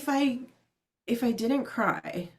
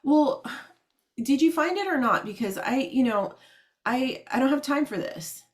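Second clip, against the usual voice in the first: irritated rude agent; 4 semitones higher than usual. Retold or imitated. Impatient IRS agent brushing off a caller, mock irritated snap. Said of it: "And he's like".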